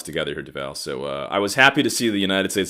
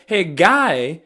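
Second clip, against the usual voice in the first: irritated scolding; 9 semitones higher, 3 dB louder than usual. Acted. Scolds the yelling newcomer.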